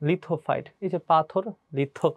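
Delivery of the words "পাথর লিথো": পাথর and লিথো set apart syllable by syllable; memory-aid emphasis. Shown as a demonstration. Teacher gives students a memory trick, পাথর and লিথো spoken distinctly. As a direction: link পাথর to লিথো through the stressed থ. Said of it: "এভাবে মাথায় রাখবা".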